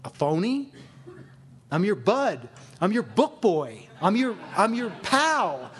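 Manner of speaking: mock-hurt, incredulous protest; wounded protest. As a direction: plead your case, stretching the key words out slowly. Hurt protest at being called phony.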